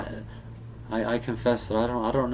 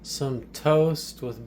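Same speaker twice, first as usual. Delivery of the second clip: put-on tea host voice; 3 semitones higher, slower than usual. Tea-making demo in put-on voice.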